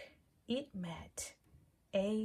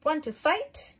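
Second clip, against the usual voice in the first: high, loud, cheeky challenge; grouchy ladybug voice; 7 semitones higher, 8 dB louder than usual. Acted. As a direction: pick a fight in a squeaky bug voice. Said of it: "said the grouchy ladybug".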